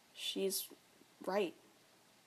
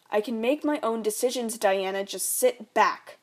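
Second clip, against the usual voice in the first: dismissive dad; 5 dB louder than usual. Acted. Drunk dad dismissing wife.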